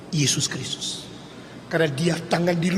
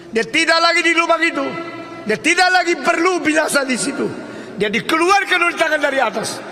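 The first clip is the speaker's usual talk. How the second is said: high, loud, ringing proclamation; impassioned high-pitched preaching; full-force preaching; 11 semitones higher, 4 dB louder than usual. Real, not acted. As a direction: proclaim it triumphantly to the congregation.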